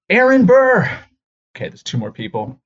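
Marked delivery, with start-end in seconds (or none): 0.1-0.8 loud, high name called out; roll call shout. Retold or imitated. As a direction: boom the name across the gym. Names read in gym.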